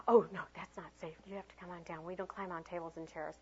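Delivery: soft, hushed teacher voice; gentle correction. Acted. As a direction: quietly talk a child down.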